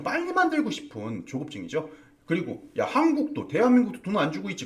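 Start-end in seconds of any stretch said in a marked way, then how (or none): 2.8-4.6 high-pitched imitation of a nagging Trump; higher mock Trump scolding. Trump scolding Korea over unpaid money, higher mocking voice. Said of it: "그걸 엄청 뭐라고 하고 있지".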